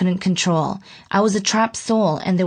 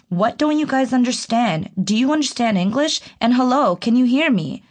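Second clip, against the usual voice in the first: mock despairing scream; 4 semitones higher than usual. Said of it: "I screamed in despair".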